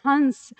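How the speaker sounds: हंस with a full n sound before the s; हंस with a clear n, as in swan; anusvara pronunciation. Shown as a demonstration. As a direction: say हंस as hans, the nasal going straight to the nose. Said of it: "क्या कहते हैं?".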